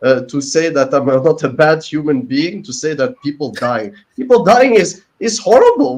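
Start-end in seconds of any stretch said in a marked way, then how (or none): 4.2-6.0 pushing through real emotion, higher and louder; getting emotional. Real, not acted. Defending himself on free speech stream, emotional raised voice. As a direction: voice rising with feeling, louder. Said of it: "I try not to get emotional".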